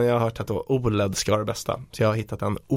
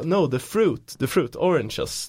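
insistent clarifying; 5 semitones higher, much slower than usual. Retold or imitated. Retelling own plea to shop staff.

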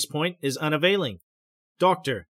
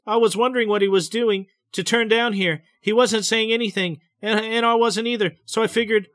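higher, tense, hurried telling; trembling, rapid breath; 6 semitones higher, 4 dB louder than usual. A narrator's reading. Betty recounting the sudden turn to the doctor, trembling. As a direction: let the voice tremble as you rush on. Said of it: "her voice is trembling, her breath is rapid".

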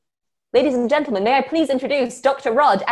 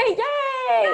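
excited cheer. Pretend. Mock cheer after being teased.

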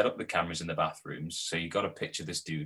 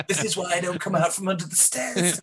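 high, laughing self-mockery; laughing through words; 11 semitones higher, 4 dB louder than usual. Real, not acted. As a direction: still laughing as he jokes about hiding. Laughing after joke.

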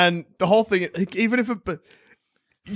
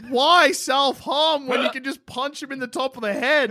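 exasperated shout; 6 semitones higher than usual. Real, not acted. Incredulous arguing, shout heard.

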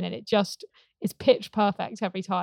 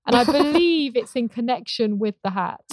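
stiff awkward speech; 4 semitones higher, 4 dB louder than usual. Retold or imitated. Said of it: "stilted reading voice".

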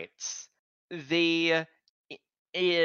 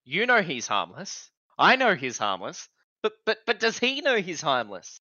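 fretful character voice; 3 semitones higher than usual. Retold or imitated. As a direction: fret more with each line. Acted character line, building.

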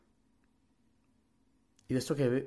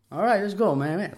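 higher, louder pumped-up call; hyped-up quote; 7 semitones higher, 5 dB louder than usual. Retold or imitated. Inmate psyching himself up, pumped and loud. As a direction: fire him up before starting.

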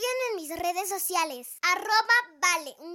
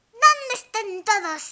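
witch voice; 3 semitones higher, 8 dB louder than usual. Acted. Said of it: "dijo la bruja".

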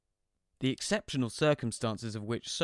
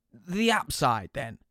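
slow, high fatherly explaining; dad patiently naming the platform; cheery dad; 4 semitones higher, 6 dB louder, slower than usual. Retold or imitated. Dad voiced on the phone.

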